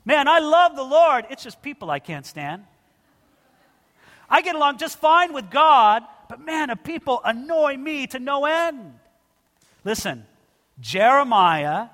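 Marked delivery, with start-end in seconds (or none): 0.0-9.0 lightly voiced self-satisfied griping; mock your own complaining thoughts; hammed-up believer who can't stand people; inner grumbler. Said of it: "I think along these lines".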